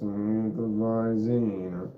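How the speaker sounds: a hint of a droning announcer; flat and dull, barely any tune; monotone voice. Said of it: "The real monotone guy. And he talked like this".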